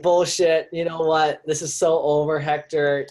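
acted angry break-up; livid girlfriend. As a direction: dismiss him as the fed-up girlfriend. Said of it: "She's livid".

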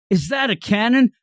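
hammed-up amazed exclamation; mock astonishment. Podcaster voices onlookers seeing the truck's cannon, mock astonishment.

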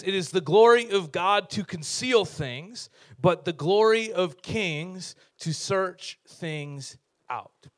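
slow, weighty reading of the verse; scripture reading. Shown as a demonstration. Pastor reading Proverbs aloud to the dads, slow and solemn. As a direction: read the proverb slowly, for weight. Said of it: "verse two says this".

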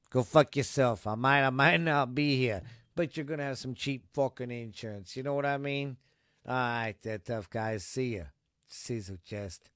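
lightly voiced tough-guy impression; a hint of a mock tough guy selling a product. Host fakes an ad for Shady Insurance, badly faked tough guy. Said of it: "tough guy impression".

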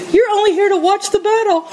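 a hint of a sneering older brother; mocking brother. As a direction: jeer like a big brother. Pastor voices Eliab's accusation.

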